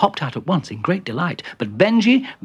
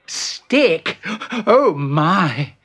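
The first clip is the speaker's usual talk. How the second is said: high startled question, then dismay; alarmed dismay; 5 semitones higher, much slower than usual. Acted. Bertie hearing about the stick, alarmed dismay.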